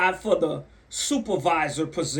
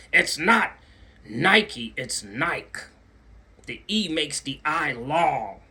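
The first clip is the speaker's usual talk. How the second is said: snooty correction; slower than usual. Retold or imitated. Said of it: "wanna put you out".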